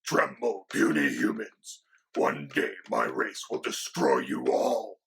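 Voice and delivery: lightly voiced menacing dragon; a hint of a boastful dragon. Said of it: "Say hi, Quill".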